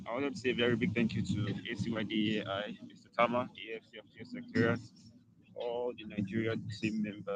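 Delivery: faint, distant mic; barely audible. Real, not acted. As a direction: voice fading out of the call. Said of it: "your voice is very faint".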